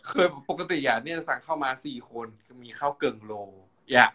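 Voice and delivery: chatty kham mueang storytelling; Northern Thai gossip; Northern Thai dialect. Shown as a demonstration. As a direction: tell it in Chiang Mai dialect. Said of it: "แบบนี้เป็นต้น ภาษาเมืองนะเจ้า".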